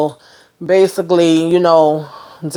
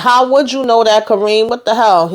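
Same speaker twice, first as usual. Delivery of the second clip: high indignant disbelief; shocked; 5 semitones higher than usual. Retold or imitated. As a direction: demand it in shock. Shocked group confronting Kareem.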